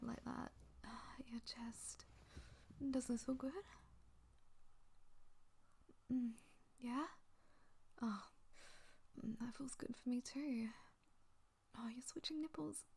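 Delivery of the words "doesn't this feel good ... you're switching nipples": hushed, tender whisper. Acted. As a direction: whisper it softly and close. Whispered soothing.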